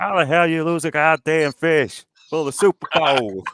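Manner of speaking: slow, drawn-out Texas accent. Shown as a demonstration. Co-host showing off his party-piece accent on request, Texas accent. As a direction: put on a slow Texan twang. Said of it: "time for your Texas accent".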